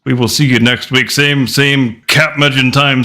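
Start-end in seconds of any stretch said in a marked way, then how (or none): 1.1-3.0 slow, drawn-out sign-off; announcer catchphrase. Acted. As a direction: stretch it like a TV announcer.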